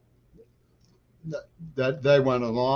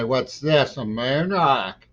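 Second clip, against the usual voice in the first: sarcastic; 3 semitones higher, 6 dB louder, slower than usual. Retold or imitated. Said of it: "You know, sarcastically".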